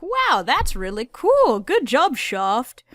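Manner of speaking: impressed. Retold or imitated. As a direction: gush with admiration. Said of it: "it's like".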